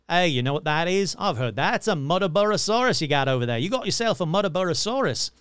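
a hint of a bad Australian accent; lightly voiced Aussie farmer; mild put-on Australian accent. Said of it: "my bad Australian accent".

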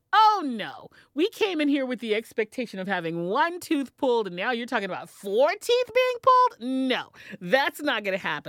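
no way, appalled protest; indignant disbelief. Retold or imitated. Refusing four teeth pulled.

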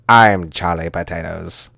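slow, grand declaration; mock-dramatic, measured proclamation; Sidney Poitier. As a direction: claim the name with stately movie-star weight. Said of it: "Poitier is gonna be like".

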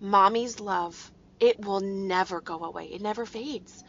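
tender reassurance. Retold or imitated. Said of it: "And I said".

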